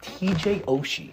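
high, slow, incredulous repeat of the name; disbelieving. Real, not acted. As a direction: say it like you can't believe it. Disbelief at opponent's pick.

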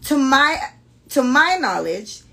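slow, careful Jamaican read-aloud; deliberate Jamaican-accented storytelling; proper Jamaican accent. Acted. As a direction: read it measured, in a polite Jamaican lilt. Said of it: "I'm gonna talk like this".

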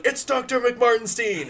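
high, loud indignant voice; indignant correction. Acted. The doctor corrects Hatchet Jones, high and indignant. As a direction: insist on the title, offended.

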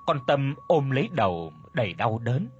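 usual speaking voice

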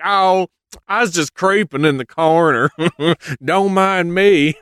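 sidle out of the corner; creepy Zeus. Retold or imitated. Zeus caught lurking, excusing himself in a sly high voice. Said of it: "Zeus is like".

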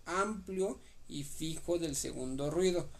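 slow, drawn-out "amplio y fijo"; careful repeat. Real, not acted. Repeating it for a confused study partner, slowly and deliberately. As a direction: spell it out slowly, stretching "amplio". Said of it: "lo voy a repetir otra vez".

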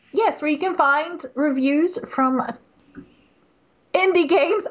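announcer read breaking into laughter; commercial voice. Pretend. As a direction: push through the ad read laughing. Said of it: "Commercial voice".

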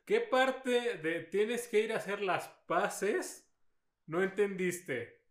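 slow, deliberate reprimand; stern scolding. Retold or imitated. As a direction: drag out each word like a furious parent. Scolding as the goddess.

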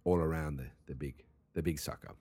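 shaky attempt at casual British; British accent. Shown as a demonstration. Host explains the cages to listeners, bad British accent. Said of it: "My British accent is not doing very good".

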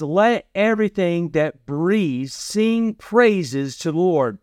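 slow, weighty reading of the verse; scripture read slowly. Acted. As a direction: let the verse land word by word. Preacher quotes scripture.

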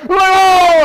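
a high burst of laughter on oh; laughing oh. Real, not acted. Telling the congregation a funny story, laughing.

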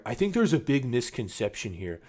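lightly put-on know-it-all dork; mock a dorky commenter, talking down; hint of a condescending nerd. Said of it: "I'm doing the most condescending, dorky voice I can".

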